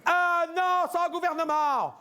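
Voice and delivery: ranting about no government; mock outburst. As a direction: blow up in comic exasperation. Comic rant peaks.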